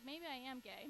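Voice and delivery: P=A; wondering aloud. Retold or imitated. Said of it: "I was like".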